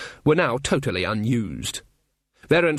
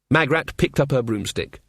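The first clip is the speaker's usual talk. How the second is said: ordinary delivery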